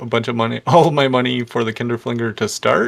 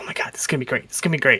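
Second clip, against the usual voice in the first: fast, breathless, breathy thrilled whisper; 4 dB quieter than usual. Retelling Cosgrave looking at the drawing, do an excited Cosgrave impression. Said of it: "he's just like like so excited".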